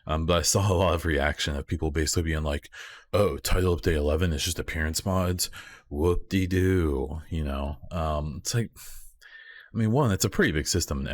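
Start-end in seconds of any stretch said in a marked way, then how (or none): 3.1-7.2 mock the unimpressed players, stretching the end; sarcastic mock quote. Quoting dismissive players.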